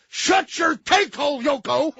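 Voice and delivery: slow high insult; mock yell. Farley's character telling his girlfriend off, slow and high.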